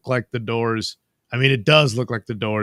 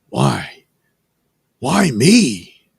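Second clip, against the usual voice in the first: mock lament; 2 semitones higher, 8 dB louder, much slower than usual. Voicing cartoon figure's lament.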